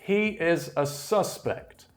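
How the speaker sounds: "suspect" as a noun, stressed SUS-pect; noun stress on first syllable. Shown as a demonstration. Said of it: "the noun is pronounced".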